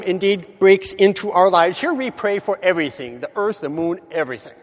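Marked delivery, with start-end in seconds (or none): none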